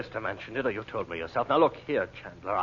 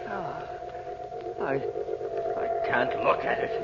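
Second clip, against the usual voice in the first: slow, breathless whisper of fear; whisper, too frightened to look; fearful half-whisper, dragged out; terrified whisper; 4 semitones higher, much slower than usual. Acted. Terrified man facing the vision.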